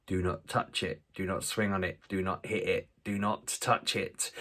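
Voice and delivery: soft, measured list of firm orders; strict warning. Retold or imitated. Dad telling his boys about the hanging pipe, strict warning. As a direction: spell out each rule quietly and firmly.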